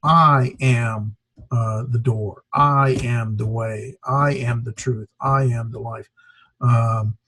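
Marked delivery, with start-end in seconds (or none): 0.0-6.1 each "I" drawn out slowly, then "am"; slow, measured quote leaning on every "I"; emphasis on I. Retold or imitated. Teacher quoting Jesus to show emphasis, stretching each "I". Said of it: "Jesus says, in contrast to the Pharisees".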